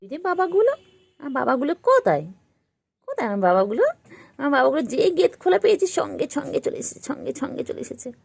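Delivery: loud, high call to pets. Real, not acted. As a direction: call them over heartily. Calling loudly to pets. (জোরে ডাকা)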